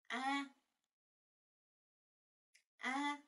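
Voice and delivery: clear, drawn-out Korean A; model Korean vowel. Shown as a demonstration. Teacher models the vowel for students to repeat, clearly. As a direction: sound out the Korean A for learners. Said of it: "Các bạn đọc theo mình nhé".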